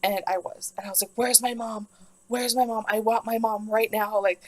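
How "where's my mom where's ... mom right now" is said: mild mock yell, pitched up; lightly hammed-up cry for mom; retold screaming. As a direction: act out a mildly panicked demand. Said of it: "I'm screaming for my mother".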